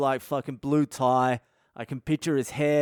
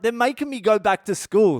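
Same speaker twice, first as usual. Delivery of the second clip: high-pitched mock protest; retold whine of injustice, pitched up; aggrieved complaint; 6 semitones higher, 4 dB louder than usual. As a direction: complain like a wronged schoolkid. Acted complaint to friend's mum.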